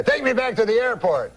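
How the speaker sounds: put-on high, urgent French-Canadian accent; comic French-Canadian uncle giving an order; Jean-Luc. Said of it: "he's like".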